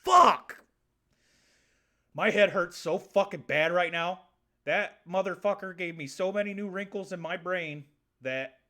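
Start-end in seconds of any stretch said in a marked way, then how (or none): 0.1-4.2 a sudden exasperated outburst; pained shout. Pretend. Viewers overwhelmed by a plant fact, loud pained shout. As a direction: yell it out, high and much louder. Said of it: "you're sitting out there going".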